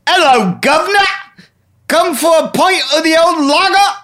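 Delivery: high, hammed-up Cockney voice; Cockney accent. Pub guest greeting the barkeep, hammed-up Cockney. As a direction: pitch it way up, mock London Cockney. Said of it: "that's my Cockney. That's a Cockney".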